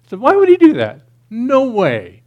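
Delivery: shouted, high-pitched mock disbelief; hammed-up, loud amazement; incredulous. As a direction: blurt it out like an astonished teenager. Re-enacts his teenage disbelief at gospel.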